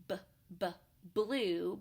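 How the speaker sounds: "b, b, blue" with the b sound isolated twice, then "blue" stressed; beginning sound demo. Shown as a demonstration. Teacher modelling the b sound in blue for parents. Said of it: "both start with letter B".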